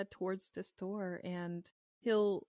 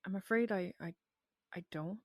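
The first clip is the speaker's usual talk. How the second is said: apologetic stammer that tapers away; mildly unsure, trailing into silence; hesitant trailing off. Acted. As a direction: falter with pauses, softening at the end. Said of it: "he will actually trail off instead".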